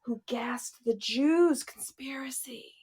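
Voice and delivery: gasped, slow whispered reveal; hushed conspiracy whisper; mock dramatic whisper.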